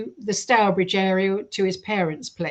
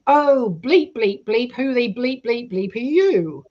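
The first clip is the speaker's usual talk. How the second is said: put-on Black Country accent; 3 dB louder, slower than usual. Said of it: "she's got this black country accent".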